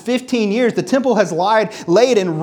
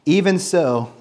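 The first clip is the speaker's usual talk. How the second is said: measured, lower-pitched Bible reading; scripture reading; 5 semitones lower than usual. Acted. Preacher reads God's rebuke to the congregation, measured scripture reading. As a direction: read the verses evenly and solemnly, phrase by phrase.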